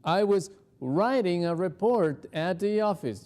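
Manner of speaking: lightly voiced photo man; a hint of another man; man in the slide answering, lightly voiced. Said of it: "el señor de la foto pues nos dice".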